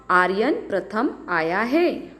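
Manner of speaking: "आर्यन प्रथम आया है" asked, lifting on है; questioning tune. Shown as a demonstration. Teacher reading the second sentence to children, questioning tune on है. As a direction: turn "आया है" into a question at the end. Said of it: "अलग-अलग भाव स्पष्ट".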